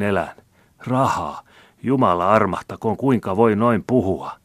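high, loud, wheedling lament; pitiful pleading. A narrator's reading. Old man begs a Christian for work, pitifully. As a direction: plead poverty like a beggar. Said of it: "virkkoi taas vanhus surkealla äänellä".

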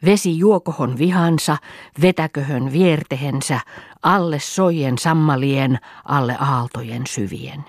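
measured, chant-like spell reading; incantation. A narrator's reading. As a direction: recite an old healing charm line by line. Reads the old healer's spell. (loitsua lausuen)

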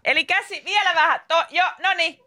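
high called instructions; lightly voiced tanner calling out. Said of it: "hän huutelee vaan".

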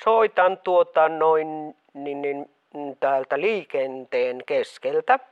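mother hides her voice from her daughter; disguised caller voice. Acted. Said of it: "sun ääni kuulostaa jotenkin erilaiselta".

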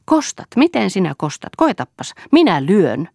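high-pitched, indignant dare; angry challenge. A narrator's reading. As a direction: throw the threat back, loud at the end. Acted quarrel, threatening to hit back. (kiivaasti uhmaten)

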